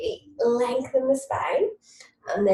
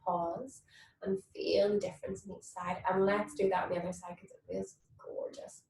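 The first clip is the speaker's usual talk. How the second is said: whispering; 2 semitones lower, 6 dB quieter than usual. Real, not acted. Soft instruction.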